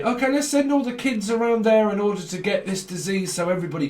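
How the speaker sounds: lightly acted parent making an announcement; imitated parents. Voicing parents in a retold scene.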